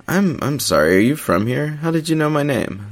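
stammering in panic, pitch climbing; shaky, frightened. Acted. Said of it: "The words practically shook out of my mouth".

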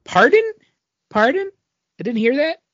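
playing the Question straining to hear through his mask; masked hero can't hear. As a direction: ham up a hero deafened by his own mask.

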